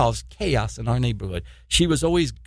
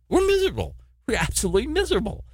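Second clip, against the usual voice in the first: anguished cry; 9 semitones higher than usual. Acted. Preacher laments the world's misery.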